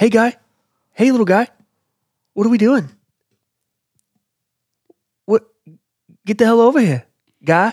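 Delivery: mock Boston or country accent. Playing an impression guessing game with another player: Boston accent impression. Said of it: "Is it Boston or country?".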